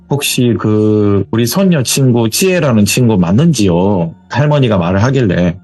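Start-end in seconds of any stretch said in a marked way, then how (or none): 0.1-4.1 slow, lightly voiced grandmother on the phone; a hint of an old granny, unhurried; elderly grandmother. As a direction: ask haltingly as a polite old woman. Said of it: "제가 뭐 연기 톤으로 말하자면".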